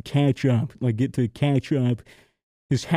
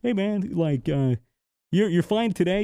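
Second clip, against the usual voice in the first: nice agent; 5 semitones higher than usual. Retold or imitated. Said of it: "the dude was super nice".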